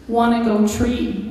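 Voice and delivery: small, slow parrot voice; a tiny slow parrot plea. Retold or imitated. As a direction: ask it in a tiny pleading bird voice. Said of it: "Alex said in a tiny voice".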